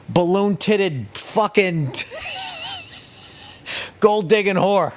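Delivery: slow, punched-out yell; exasperated slow-motion yell; drawn-out ranting shout. Real, not acted. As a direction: lean into each word, half shouting. Ranting crescendo about nerds' reward.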